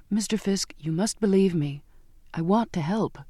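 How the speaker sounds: earnest, understated entreaty; pleading. Acted. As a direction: beg to be believed. Girl begging sailor to believe her.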